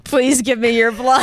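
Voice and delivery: polite pleading ad voice, breaking into laughs; customer service voice. Pretend. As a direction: perform a charity ad on cue. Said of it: "do your customer service voice".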